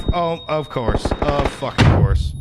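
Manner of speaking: slow, loud exasperated yell; frustrated yell. Real, not acted. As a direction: drag it out in frustration.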